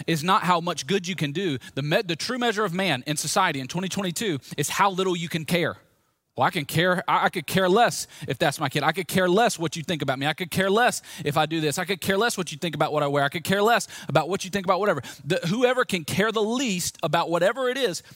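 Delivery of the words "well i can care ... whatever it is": raised, emphatic mock boasting; boastful indifference. Preacher mimics the world bragging about caring least, boastful indifference. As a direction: hammer each boast out higher, showing off.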